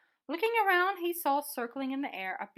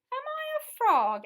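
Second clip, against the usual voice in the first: high, loud, slow wonder; surprised question; 12 semitones higher, 9 dB louder, slower than usual. Acted. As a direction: ask it in wide-eyed surprise. Beaky wondering if he is frog.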